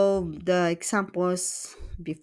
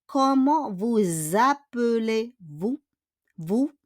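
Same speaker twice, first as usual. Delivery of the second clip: slow question, "appelez-vous" lifting at the end; "vous appelez" linked with a z, sung upward on "vous"; rising question intonation; 3 semitones higher, slower than usual. Shown as a demonstration. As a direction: raise the final "vous" as a question. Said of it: "tataas yung intonation".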